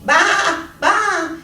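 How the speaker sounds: high, loud baa; bleating sheep. Acted. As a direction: bleat like a lamb. Hen imitates sheep.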